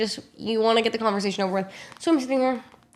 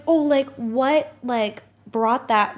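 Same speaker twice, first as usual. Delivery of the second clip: slow curious driver; 3 semitones higher, much slower than usual. Retold or imitated. Driver voiced slowly.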